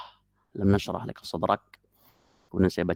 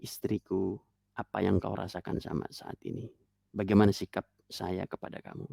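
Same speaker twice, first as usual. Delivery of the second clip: softly put, gentle question to a wife; bertanya baik-baik; 6 dB quieter than usual. Acted. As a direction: ask your wife kindly, in a softer voice. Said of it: "tanya baik-baik". (bertanya lembut kepada istri)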